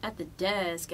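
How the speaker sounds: a hint of a hesitant desk agent; mild imitation of a reluctant clerk; airline clerk. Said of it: "He was like".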